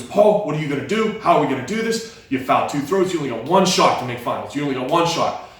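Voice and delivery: panicked coach. Retold or imitated. Coach panicking before last throw.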